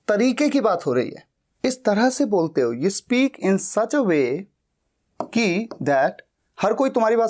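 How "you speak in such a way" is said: very slow, each word spaced; teacher dictating the English line slowly; slow dictation. Shown as a demonstration. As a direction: read it out slowly for students to write. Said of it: "teacher dictates the translation".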